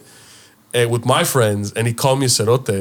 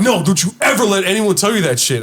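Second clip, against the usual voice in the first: tag; 8 semitones higher than usual. Retold or imitated. Retelling dad's stern warning.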